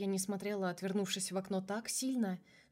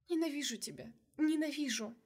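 tearful; 6 semitones higher than usual. A narrator's reading. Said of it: "говорила я".

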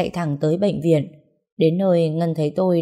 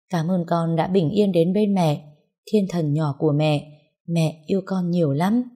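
tender murmur. Acted. New mother to baby in her arms, tender.

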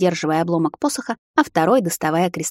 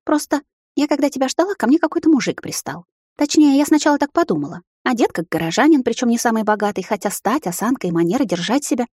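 flustered sister; 5 semitones higher than usual. Acted. Sister voiced, flustered account.

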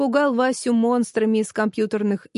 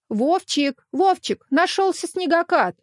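calling out; 7 semitones higher than usual. Acted. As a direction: shout for her boy, thrilled. Mother calling her son.

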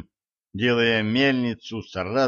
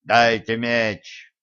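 loud demand; 3 dB louder, much slower than usual. Acted. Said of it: "громко потребовал".

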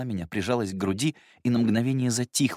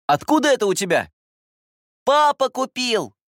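put-on little girl voice; 6 dB louder than usual. Sister boasting to her brother about her toy, high child voice.

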